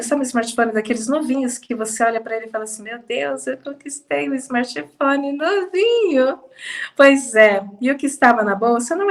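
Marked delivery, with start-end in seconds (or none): 2.8-6.4 slow, drawn-out delight, rising in pitch; mock awe. Imagined owner admiring a brand-new smartphone, in mock awe. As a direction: savour it like a prized new possession.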